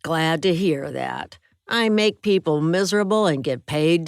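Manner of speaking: lightly voiced bully pressing for a secret; taunting roommate.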